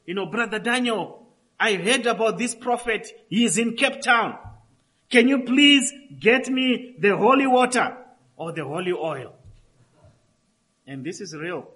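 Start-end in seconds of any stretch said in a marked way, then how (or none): 0.0-9.3 higher, louder, eager asking voice; a hint of a desperate believer's plea; imitating pleading cousin. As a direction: lightly voice a cousin begging for holy oil. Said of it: "S M S and says".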